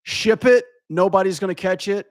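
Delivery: high, breezy mock shrug of a lazy dev; careless dismissive. Streamer mimicking lazy developers, high breezy dismissive. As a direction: toss it off like nobody will ever notice. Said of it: "people are like".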